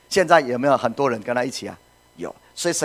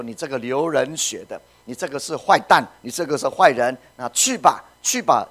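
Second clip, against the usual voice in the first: louder, heated mock cursing; 5 dB louder than usual. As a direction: hurl insults at the fallen king. Acts Shimei cursing David.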